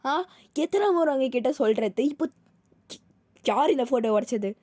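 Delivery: angry mum telling them off loudly; mother yelling. Acted. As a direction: shout at the kids over the broken photo. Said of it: "செம்ம கத்து கத்துறாங்க".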